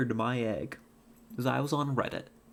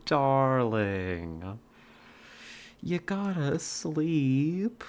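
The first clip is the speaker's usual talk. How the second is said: mock British parent. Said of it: "Jamie's British too".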